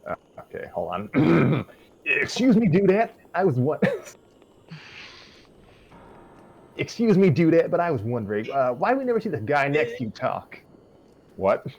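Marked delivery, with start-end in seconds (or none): 2.1-10.6 high, loud, hammed-up host voice; Chris voice. Narrator doing Chris as Jeff, high and loud. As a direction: pitch way up and play the smug host. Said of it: "practicing my Chris voice".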